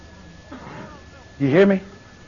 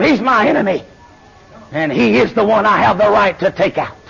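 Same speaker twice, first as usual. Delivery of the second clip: ordinary delivery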